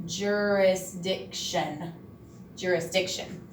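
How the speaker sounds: "Jurisdiction" stretched slowly, each syllable clear; slow careful word. Shown as a demonstration. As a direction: model "Jurisdiction" slowly for the class. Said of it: "I went a little slower".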